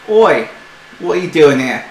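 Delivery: a loud "Oi" from a gruff shopkeeper. Acted. Shopkeeper confronting intruders, loud and gruff. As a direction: bark the challenge at strangers.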